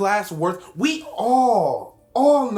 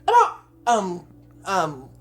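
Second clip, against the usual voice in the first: lightly put-on nerdy classmate voice; awkward student; 2 semitones higher than usual. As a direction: stammer a question to the professor. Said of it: "want me to be the non-autistic autistic".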